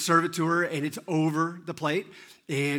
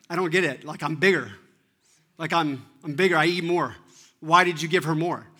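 put-on loud kid's complaint, building in force; acted-out childish grievance; imitated indignant protest; 6 dB louder than usual. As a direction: protest like a jealous little brother. Jealous son protests to dad.

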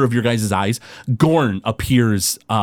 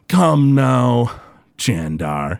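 villain beckons; much slower than usual. Acted. GM voices Groon.

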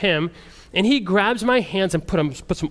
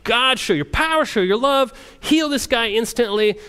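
raised, earnest prayer voice; fervent prayer; 5 semitones higher than usual. Retold or imitated. Missionary retells praying over the slum chief, fervent. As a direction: pray it out like it's your best prayer. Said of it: "I'm praying my best prayer".

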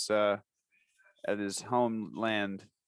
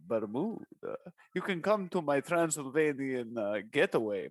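Dracula voice. Shown as a demonstration. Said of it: "it sounds like vampire, like Dracula".

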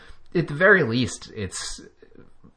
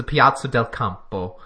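a light touch of Italian on Piazza del Campo, not overdone; mild fake Italian; 3 dB louder than usual. Shown as a demonstration. Host naming the race finish, in a mild fake Italian accent. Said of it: "that's just my fake Italian".

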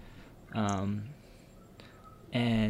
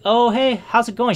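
imitating a chirpy friend, higher and louder; cheery, bubbly; 10 semitones higher, 4 dB louder than usual. Friend greeting a sick pal on the phone, cheery and bubbly. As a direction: lift it into a bubbly phone hello. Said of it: "She's a very cheery, you know, bubbly person".

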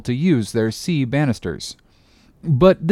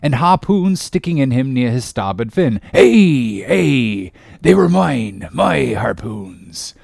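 mildly exultant, slowing on my harpoons; a touch of triumph; exulting; 3 dB louder, slower than usual. Acted. Ahab claims the harpoons as his, mild exultation. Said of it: "cried Ahab exultingly".

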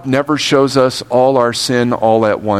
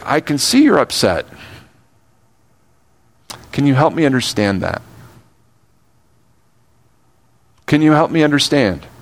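gentle answer; 2 semitones higher, faster than usual. Retold or imitated. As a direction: calmly reassure someone who is upset. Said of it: "See, a gentle answer".

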